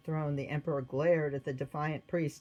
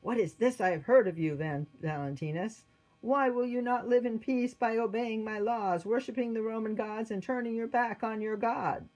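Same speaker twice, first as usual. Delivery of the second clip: stern, raised-voice interrogation; indignant demand, pitched up; fierce emperor; 6 semitones higher, 4 dB louder than usual. A narrator's reading. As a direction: confront a disobedient subject. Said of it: "looked fiercely at this man".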